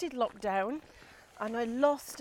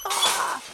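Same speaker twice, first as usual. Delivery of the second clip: drawn-out, higher "ah"; annoyed groan; 8 semitones higher than usual. Retold or imitated. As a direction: let out an exasperated "ah" at a squeak. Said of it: "just the most annoying, like".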